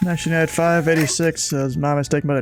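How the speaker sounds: a lightly voiced controller correction, steady and even; ATC radio call. Controller on frequency giving a late turn, even radio read. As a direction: fix the turn calmly, in radio cadence.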